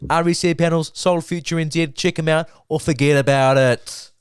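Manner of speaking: hammed-up tough-guy sales pitch; loud mock pitch for the solar sponsor; mock tough ad read.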